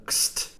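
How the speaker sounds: "kst" as bare consonants, no vowel; k, s, t run together in "kst"; isolated final cluster. Shown as a demonstration. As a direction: sound out "kst" on its own. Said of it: "which is a bit of a mouthful".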